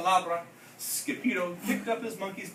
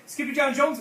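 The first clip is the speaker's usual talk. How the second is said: higher startled exclaim; 7 semitones higher, 5 dB louder than usual. A narrator's reading. Mama rushing into his room, startled exclaim. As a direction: call him out, startled. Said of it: "exclaimed Mama".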